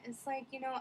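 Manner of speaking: ordinary talk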